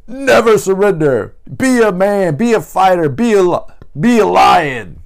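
hammed-up coach shouting at someone on the couch; mock motivational shouting. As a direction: roar it like a hype recording pushing you to fight. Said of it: "it's challenging me".

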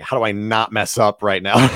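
a laughing mock panic; laughing nervous thought. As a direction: laugh through the worry. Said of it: "all you're thinking about is".

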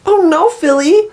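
high, slow, hammed-up fake alarm; bad acting. Imitating the pop singer addressing Philly, high slow bad acting. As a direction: drag it out like a terrible actress. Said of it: "in, like, the worst, like, acting".

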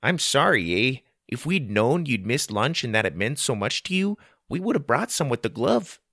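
lightly voiced apologetic Canadian; careful Canadian. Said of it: "chose his words carefully".

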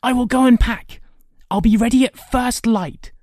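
put-on high, loud boyish eagerness; excited crying out. A narrator's reading. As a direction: announce it in victorious excitement. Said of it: "he cried".

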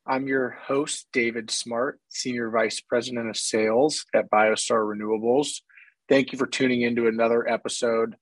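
hoarse from a cold. Real, not acted. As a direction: speak through a hoarse, worn throat. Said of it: "pardon my hoarse voice".

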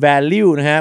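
"value" said as "val-liw", rhyming with the name Riw; mispronounced "value". Shown as a demonstration. Host mocking a common mistake to listeners, mispronounced "value". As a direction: turn the end of "value" into "liw". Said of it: "ออกเสียง value นะฮะ เหมือนพี่ริวจิตสัมผัส".

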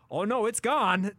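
mock broadcaster disbelief; imitating excited call. Host imitating Klauke's walk-off call, excited. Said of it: "he's like".

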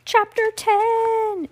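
slow, high title reading; chapter announcement. Acted.

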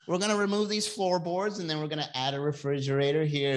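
lightly voiced chirpy TV renovator; a hint of fake cheer; mock TV host voice. Mocking HGTV hosts: lightly chirpy. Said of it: "no one's gonna talk like that".

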